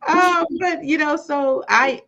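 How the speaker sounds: high laughing, voice cracking; laughing through tears. Real, not acted. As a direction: laugh it off, then choke up. Laughs into tearful emotion.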